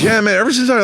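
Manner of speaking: high, loud rural drawl imitation; imitating a rural guy's casual drawl. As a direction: mimic the guy's country twang. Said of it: "he kinda talked like this".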